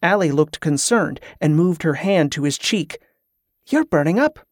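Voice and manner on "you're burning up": higher, sudden alarm; startled by his heat. A narrator's reading. Allie alarmed at fever.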